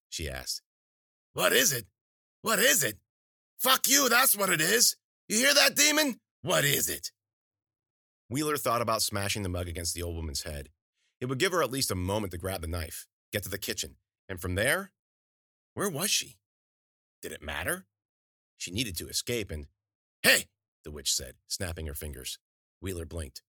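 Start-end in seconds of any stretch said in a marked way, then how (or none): 1.3-7.1 high, loud crone mimicking the question; mocking shrieking crone. A narrator's reading. Witch mocking Wheeler's question at the cat, high loud crone. 20.2-20.5 sharp hey. A narrator's reading. Witch snapping fingers.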